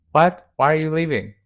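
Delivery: incredulous viewers calling out at the screen; mock baffled outcry. Friends reacting to the episode, mock baffled outcry. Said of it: "And we're like".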